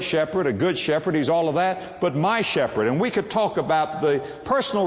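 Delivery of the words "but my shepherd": "my" punched at the end; stress on my. Shown as a demonstration. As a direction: contrast "my" with "the". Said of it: "Not the shepherd".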